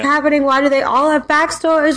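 climbing into high-pitched bewilderment; baffled reader. Acted. Readers reacting to all the backstories, baffled. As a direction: build to an exasperated, high-pitched question.

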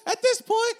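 playing Abigail. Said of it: "You're Abigail Adams".

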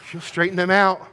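loud, high joking threat; mock threat. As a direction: play it up as a big joke. Joking threat about Mom.

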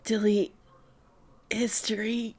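fawning kohai voice; eager underling. Retold or imitated. Voicing gushing underling.

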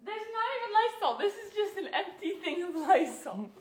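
talking through laughter; amused complaint, laughing. Real, not acted. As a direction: laugh while pointing out the empty can. Laughing at empty can.

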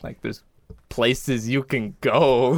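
unbothered, trailing into a slow finish; super chill. Retold or imitated. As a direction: imitate a comic shrugging it off. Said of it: "he's just, like, super chill about it".

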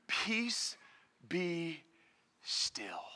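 very soft, low, word by word; hushed and measured, sinking to a low close; peaceful command. Acted. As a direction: say each word quietly, with pauses between. Famous words that calm the storm.

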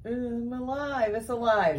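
Frankenstein line. Acted. Quoting Frankenstein's famous line.

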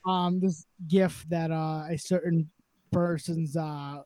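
holding back laughter; stifled giggles through the words; trying not to laugh. Real, not acted. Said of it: "I'm trying not to laugh right into the freaking microphone".

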